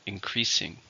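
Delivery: "Increasing" stressed on "creas"; second-syllable stress. Shown as a demonstration. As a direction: model "Increasing" with weight on the middle syllable. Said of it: "stressed in the second".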